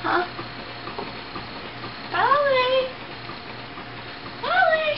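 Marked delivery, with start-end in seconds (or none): 2.1-4.9 calling out. Real, not acted. Calling the dog Polly.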